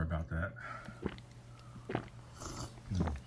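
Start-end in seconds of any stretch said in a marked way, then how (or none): 2.9-3.1 slurping. Real, not acted. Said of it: "Excuse my slurping sound".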